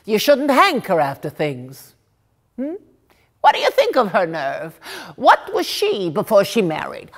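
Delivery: animated, aggrieved storyteller's character; indignant gossiping woman. Acted. Woman complaining to a listener about another woman's nerve, indignant gossip. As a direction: gossip with lively, swooping indignation.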